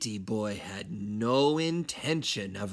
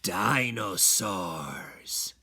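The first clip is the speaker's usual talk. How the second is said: dreamy; 5 semitones lower, much slower than usual. Acted. Kitten dreamily says dinosaurs.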